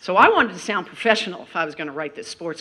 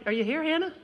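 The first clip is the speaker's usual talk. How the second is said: calling out; 9 semitones higher, 11 dB louder than usual. Real, not acted. Calling a graduate to stand.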